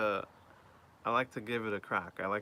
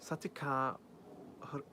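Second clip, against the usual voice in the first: higher put-on gibberish Japanese; fake foreign language; 5 semitones higher than usual. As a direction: babble nonsense that sounds Japanese. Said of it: "I'd be like".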